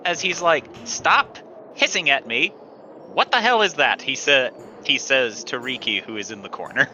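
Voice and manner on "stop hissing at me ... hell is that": higher-pitched, exasperated complaint; indignant, raised-pitch demand; annoyed outburst. Acted. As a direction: snap it at someone bothering you. Game master voices irritated man in yellow.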